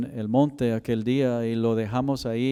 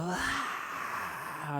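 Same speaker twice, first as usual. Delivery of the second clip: mild mock cry; 6 semitones higher, 11 dB quieter than usual.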